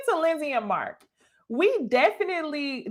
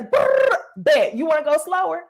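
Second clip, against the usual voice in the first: sassy clapback; 4 semitones higher, 3 dB louder than usual. Retold or imitated. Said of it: "she lights his ass up".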